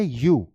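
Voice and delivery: "यू" with a y glide into oo; "यू" low, as the answer; initial "yoo" sound. Shown as a demonstration. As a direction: say "यू" like "you". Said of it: "इसकी pronunciation क्या है".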